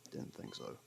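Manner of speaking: a dry, whispered aside under the breath; muttered aside. Acted. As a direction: mutter it to yourself, not for them. Dry aside after no answer.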